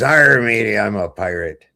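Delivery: lightly voiced old sea dog; a hint of pirate, leaning on the arr. Pirate answering the man in the tavern, lightly acted pirate. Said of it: "The guy says".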